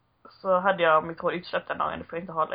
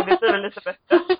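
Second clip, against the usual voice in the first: chirpy reply; 10 semitones higher, 7 dB louder than usual. Retold or imitated. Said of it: "Så jag bara".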